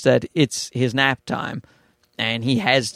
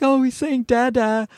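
fond wife; 9 semitones higher than usual. Retold or imitated. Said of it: "My wife's like".

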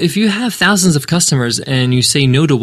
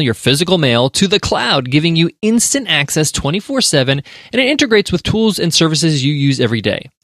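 higher-pitched sponsor read, selling it; 4 semitones higher than usual. Acted. Host gives love to today's sponsor, higher ad read.

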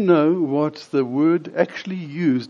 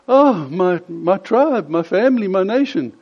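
higher, louder fervent appeal; pleading call; 5 semitones higher, 5 dB louder than usual. Acted. Jesus calling to his people, fervent louder appeal. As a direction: call out to them with rising fervor. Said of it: "basically saying to them".

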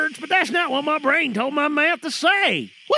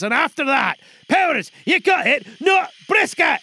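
angry insistence. Real, not acted. Director insisting loudly.

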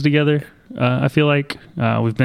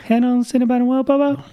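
high, fast small-town cashier voice; chirpy Midwest clerk impression; Wisconsin accent; 11 semitones higher, faster than usual. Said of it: "and she's like".

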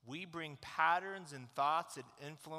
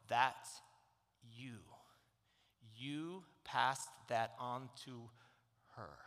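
gentle slow voice; 3 semitones lower, slower than usual. Retold or imitated. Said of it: "the Holy Spirit said".

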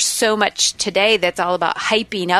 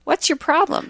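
read-out complaint; 9 semitones higher than usual. Acted. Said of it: "say this with more emphasis".

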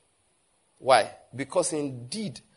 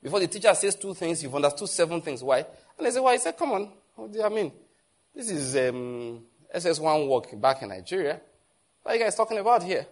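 wowed classmates; 3 semitones higher than usual. Retold or imitated. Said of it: "they are wowing like".

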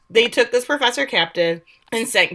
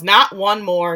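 loud retold shout; a loud, half-acted outburst from the story; retold yell; 6 dB louder, slower than usual. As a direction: shout it as the shooter in the scene. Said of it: "Grace Juno stands up and yells".

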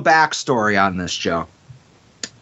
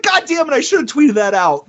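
retold exasperation; 10 semitones higher than usual. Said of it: "and I was like".

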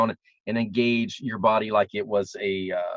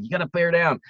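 higher-pitched imitation of a petite coach; little Australian voice; 6 semitones higher than usual. Coach's advice popping into her student's head, in a higher little voice. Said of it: "I heard that little voice saying".

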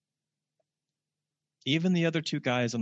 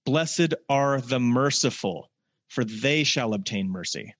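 slow scripture reading; slower than usual. Acted. Preacher telling the congregation to listen up, slow and solemn. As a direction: weigh every word of the promise. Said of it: "listen up".

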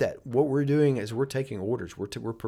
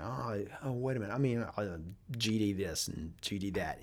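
quieter, halting imitation of musing; mumbled stop-and-start, as if working it out; thinking aloud; 6 dB quieter than usual. Customer ordering duck calls cusses as he thinks, imitated musing. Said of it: "like he's thinking".

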